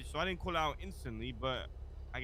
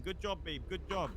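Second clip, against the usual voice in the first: retold screaming; 4 semitones higher than usual. Witness imitates girlfriend cheering her partner on, mock screaming.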